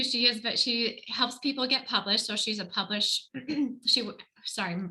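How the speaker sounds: talking while chewing seeds; words round a mouthful; mouth full. Real, not acted. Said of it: "I'm still chewing on the seeds".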